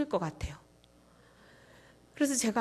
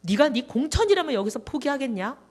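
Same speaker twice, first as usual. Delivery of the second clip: God scolding; 3 semitones higher, 5 dB louder than usual. Retold or imitated. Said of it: "하나님이 무지하게 저를 혼내실 것 같아요".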